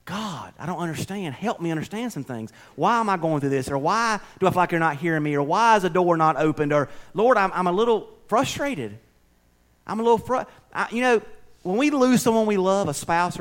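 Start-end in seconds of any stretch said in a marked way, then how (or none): 0.0-10.5 sample prayer. Shown as a demonstration. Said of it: "Talk to him".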